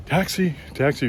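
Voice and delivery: high call of an airport tout; mock taxi tout call. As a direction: hawk rides at passing travellers. Airport touts calling out.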